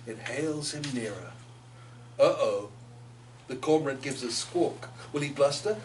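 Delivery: lilting poem reading, rising with the story. A narrator's reading. Author reading her heron poem aloud, lilting. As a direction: tell the tale in verse.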